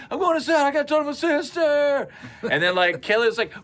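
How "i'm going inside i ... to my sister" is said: put-on high earnest kid voice; a soaked little kid heading in; eight-year-old voice. Wet boy telling friend he's going inside, high kid voice. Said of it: "doing my best eight-year-old impression".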